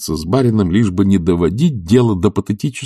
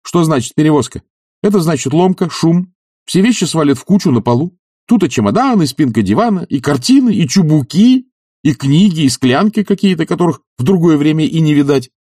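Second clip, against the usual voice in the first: higher, louder, ever more insistent; growing insistence; 9 semitones higher, 5 dB louder than usual. Acted. Oblomov convincing Zakhar, mounting and loud. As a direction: build conviction line by line.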